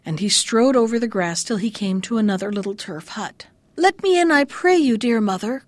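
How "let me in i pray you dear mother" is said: a higher, louder plea to be let in; lightly acted cry at the hut door. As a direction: call out to the old woman, begging. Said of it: "cried he".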